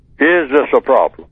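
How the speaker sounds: usual speaking voice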